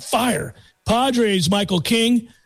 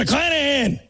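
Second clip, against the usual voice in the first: higher, punched repeat of McClanahan; exclaimed name; 4 semitones higher than usual. Shown as a demonstration. Host announcing the pitching probables, exclaimed.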